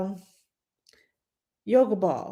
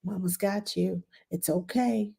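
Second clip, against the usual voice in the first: quiet soothing; 5 dB quieter than usual. Shown as a demonstration. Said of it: "If you talk quietly".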